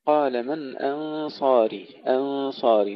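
أنصاري with thin hamza and thick nasal before S; weight the ghunna and sad of أنصاري; light hamza heavy sad. Shown as a demonstration. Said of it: "ترقيق الهمزة ثم تفخيم الغنة مع الصاد". (ترقيق الهمزة وتفخيم الغنة)

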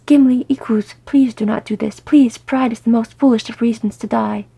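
loud, begging plea to his kinsman; wretched pleading. Acted. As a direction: beg him desperately, voice pushed up. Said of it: "Thorin said wretchedly".

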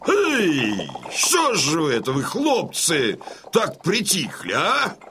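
hearty call to rouse the lads; rousing cry. Acted. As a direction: shake the sons out of their gloom, boisterous. Father rousing his sons. (бодрый, зычный призыв к сыновьям)

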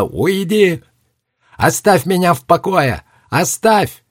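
high, shrill-pitched scream. Acted. Girl screaming the boy away from her door, high scream. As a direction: scream at him to get out. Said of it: "закричала".

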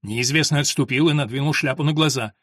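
usual speaking voice

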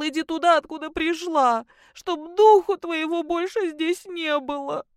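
high, lightly mimicked husband's harsh order; a hint of the husband's cruel command; quoting husband harshly. Daughter mimicking her husband throwing her out, lightly harsh. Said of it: "Сказал".

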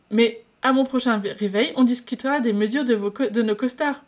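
cheeky lovestruck patient pushing his luck; playful flirt. Acted.

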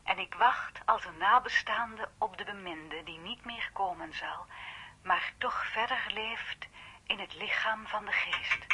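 slow, hushed poem recital; reading a poem. Acted. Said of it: "Ja, laat eens horen".

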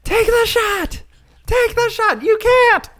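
put-on high, far-off heckling kid voice. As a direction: jeer like a teenager at a dunk tank. Students at the dunk tank.

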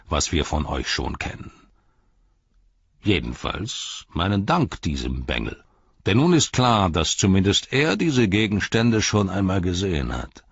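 mocking, scornful herald voice; a sneering messenger of the enemy mocking the captains; sneering envoy. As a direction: taunt the wizard with contempt. Mouth of Sauron voiced.

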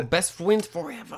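cutesy mock voice. Co-host teasing about two new pals, cutesy mock voice. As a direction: put on a cutesy best-friend voice.

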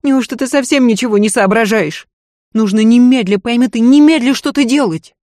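high, loud scolding mistress; lady berating her maid in a panic; agitated lady. Acted. Mistress scolds the maid about her pregnancy, agitated and loud.

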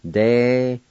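De-ga-stin split into clear syllables; teacher sounding out De-ga-stin; model pronunciation. Shown as a demonstration. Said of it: "pronounce the T L sound like this".

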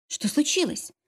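hushed and high with a hint of fear; mild frightened hush; frightened whisper. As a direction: ask it quietly, a little scared. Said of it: "со страхом в голосе прошептала".

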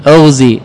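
اغزي starting with a rounded "u", "ughzi"; damma on hamza. Shown as a demonstration. Teacher shows the other allowed reading, اغزي as "ughzi". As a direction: say اغزي as "UGH-zee". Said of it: "يجوز فيه وجهان".

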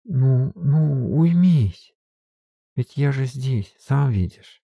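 put-on calm him like a frightened child; soothing. A narrator's reading. Софья утешает дрожащего Фёдора. (ласково успокаивает, тише и медленнее)

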